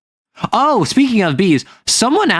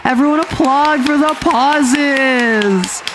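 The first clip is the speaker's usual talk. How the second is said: much higher, slow, gushing mock applause; mock celebration; 11 semitones higher, slower than usual. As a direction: gush over it like a proud hostess, hammed-up.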